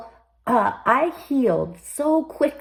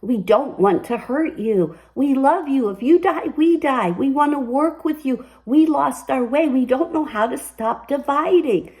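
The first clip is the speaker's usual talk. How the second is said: leukemia speaking; 2 semitones higher than usual. Retold or imitated. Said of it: "my leukemia spoke to me and it said".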